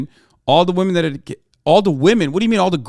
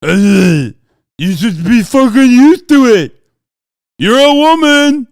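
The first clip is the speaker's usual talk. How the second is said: loud, slow, higher sneering put-on voice; mocking sneer; 5 semitones higher, 10 dB louder, much slower than usual. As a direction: parody a smug troll, drawn out and loud. Mocking a sexist chatter.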